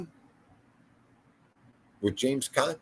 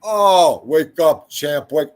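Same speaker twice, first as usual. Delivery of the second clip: hammed-up wailing, easing off; mock bawling; 2 semitones higher, 7 dB louder, slower than usual. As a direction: imitate the kid's tearful plea. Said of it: "Just start bawling".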